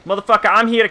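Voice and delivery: fast, high ghetto-country threat; high-pitched trash talk in a ghetto-country accent. Acted. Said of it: "halfway between ghetto and country".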